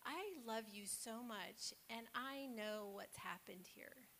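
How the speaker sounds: mother gently coaxing a confession from her son; tender reassurance. Retold or imitated. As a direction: reassure a little boy that he is loved. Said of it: "she just stopped and she said".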